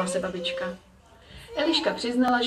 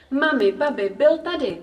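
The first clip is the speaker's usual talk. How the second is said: put-on high, thrilled child's outburst; excited calling; 5 semitones higher, 3 dB louder than usual. A narrator's reading. Girl running in to mum and grandma, excited calling. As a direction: burst out with the big news. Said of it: "volala celá nadšená".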